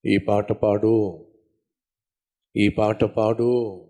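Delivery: a slow, low, gentle command from God; God calmly urging, slow and low. Retold or imitated. God's voice speaking to nurse. (దేవుని స్వరంలా నెమ్మదిగా, తక్కువ స్వరంతో)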